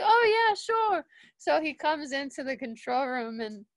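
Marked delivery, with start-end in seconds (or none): 0.0-1.0 high, loud, breezy yes; re-enacted upbeat acceptance; retold cheerful agreement. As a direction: agree eagerly, as a quoted reply. Retold Paul cheerfully accepting the invitation.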